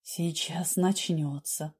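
slow, soft dread. A narrator's reading. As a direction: murmur it in grim anticipation. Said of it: "побледнел тот".

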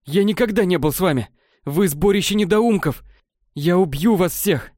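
high-pitched, hysterical tirade; shrieking rage. A narrator's reading. Unhinged elf threatening the stalkers, shrieking. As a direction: rage at them all, pitch staying high. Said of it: "сорвавшись на визг".

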